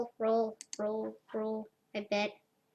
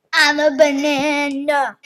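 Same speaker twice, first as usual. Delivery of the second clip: laughing; 2 semitones higher, 6 dB louder than usual. Real, not acted. Echoing chat message, laughing.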